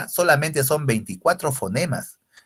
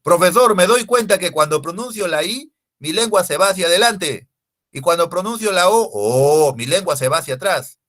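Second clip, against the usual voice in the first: higher, louder pupil reporting to the teacher; student making a discovery; 5 semitones higher, 5 dB louder than usual. Acted. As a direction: pipe up as a student who just noticed.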